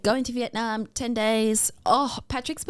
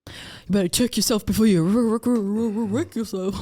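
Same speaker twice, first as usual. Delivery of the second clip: stuttered catchphrase; 4 dB louder than usual. Pretend. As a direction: stutter playfully on the word "wreck". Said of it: "I don't know why I said it like that".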